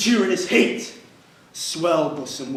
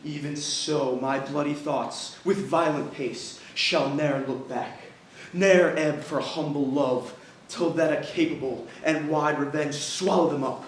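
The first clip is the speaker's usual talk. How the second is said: grim vow. Acted. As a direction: swear it darkly. Othello swears a vow.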